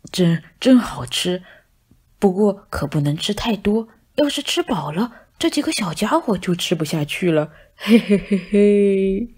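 scheming to himself between bites; sly whisper. Acted. Cat secretly plots while eating. (大肥猫一边吃一边偷偷盘算，阴笑)

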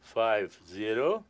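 very slow, deliberate echo of each digit; slow repeat. Real, not acted. Magician echoing the volunteer's digits, slow and deliberate. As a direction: spell the numbers back one at a time.

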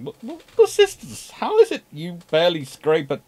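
high, loud, whining complaint; high pleading mock whine; whiny ship voice. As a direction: whine like a hard-done-by sibling. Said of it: "And Australia going".

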